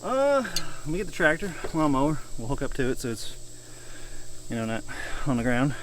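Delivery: winded, catching breath; talking while out of breath. Real, not acted. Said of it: "Sorry, I'm out of breath".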